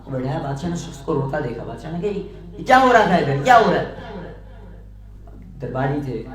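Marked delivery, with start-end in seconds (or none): 2.1-3.9 stern demand. Acted. King demands what happened.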